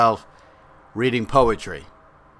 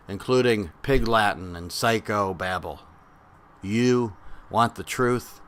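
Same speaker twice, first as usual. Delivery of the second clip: measured spoken-word delivery, pause after each phrase; poetry reading. Acted. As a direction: recite it line by line, deliberately. We're gonna read some older and some newer poetry.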